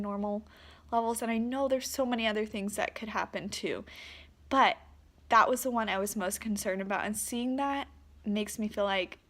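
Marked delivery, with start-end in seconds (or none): 4.5-9.2 ugly crying. Real, not acted.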